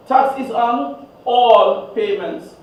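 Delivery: "all" stretched out slowly and set apart; slow down to underline the word "all"; stress on all. Shown as a demonstration. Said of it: "emphasis on the word what?".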